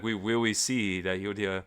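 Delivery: a hint of a silly podcaster laughing through it; mild mock dumb-guy voice; mocking goofy voice. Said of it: "I could hear that voice in my head".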